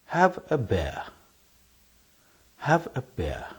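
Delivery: imitating others saying bear for beer; mock local accent, bear with open eh vowel. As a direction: bear said pɛɹ where beer is meant. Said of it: "sounds like this".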